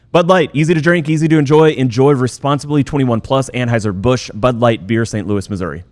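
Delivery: high, punchy opening settling into the small print; ad read tagline. Acted. Host closing the beer spot for listeners, ad read tagline. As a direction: sell the slogan, then step down through the disclaimer.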